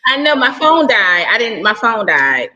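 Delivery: high, loud flustered explanation; loud apology. Real, not acted. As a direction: hurry to explain the dropped call. Guest explains dropped call.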